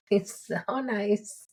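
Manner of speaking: slow, lightly accented coach imitation; imitating coach. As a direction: mimic the coach, drawn out. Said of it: "He's always talking with a little accent".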